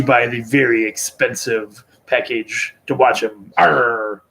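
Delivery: pirate arr; pirate growl. Pretend. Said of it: "I'm still talking like a pirate".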